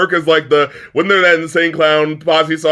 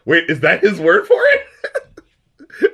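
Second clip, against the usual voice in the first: laughing disbelief; much slower than usual. Retold or imitated. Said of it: "I was like".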